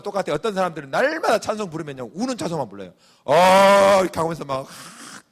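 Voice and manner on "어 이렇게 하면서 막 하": mock weepy sigh. Preacher mocking tearful hymn singers with a sigh. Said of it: "이렇게 불러요".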